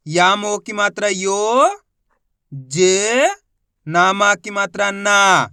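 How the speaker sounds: reading each syllable apart. Shown as a demonstration. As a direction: spell it out like a teacher, one akshar at a time. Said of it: "मेरे तरीके पे गौर करना है".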